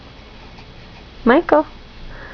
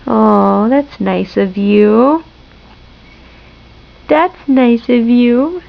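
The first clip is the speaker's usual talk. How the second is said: slow, low, tender praise; 3 semitones lower, much slower than usual. Real, not acted. Soft, slow praise to baby.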